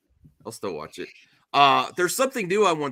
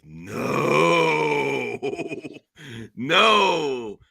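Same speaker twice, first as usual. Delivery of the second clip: mock crying no. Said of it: "and she's like".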